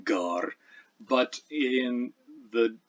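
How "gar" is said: gar with G as a firm stop; Old English gar, stopped G and long vowel; hard G. Shown as a demonstration. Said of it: "That's a stop".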